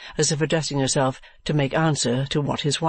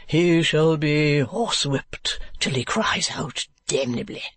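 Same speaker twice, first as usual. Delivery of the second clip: slow foppish threat; Mr. Mantalini; 2 semitones higher, slower than usual. Acted. Husband promising his wife a horsewhipping, slow drawl.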